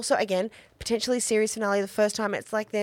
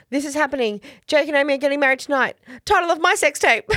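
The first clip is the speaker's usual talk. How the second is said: rushing, loud, higher giddy quote; excited Charles; 5 semitones higher, 6 dB louder, faster than usual. Retold or imitated. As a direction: gush it out like an overeager friend. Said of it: "Charles goes".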